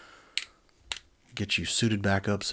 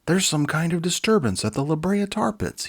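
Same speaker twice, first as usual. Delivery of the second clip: alarmed doctor; 10 semitones higher, 7 dB louder than usual. Acted. Bright alarms the team.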